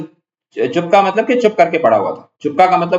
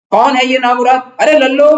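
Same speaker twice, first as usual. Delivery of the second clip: irritated call; 10 semitones higher, 4 dB louder than usual. Acted. Wife hears knocking, calls servant.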